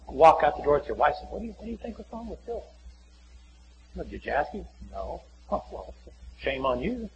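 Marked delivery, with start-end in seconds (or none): 1.3-7.1 hushed aside. Acted. Acts out couple's private exchange.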